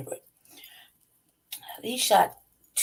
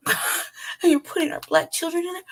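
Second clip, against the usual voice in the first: much higher, playing dumb and offended; mock outraged parent; 11 semitones higher than usual. Mocking Denver parents who act stupid: high, offended voice. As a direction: ham up a parent feigning shock. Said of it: "they ought to act stupid like".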